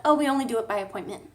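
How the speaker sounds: quick, mock-prim receptionist voice; mimicking clinic staff. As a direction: rattle it off like a bored receptionist.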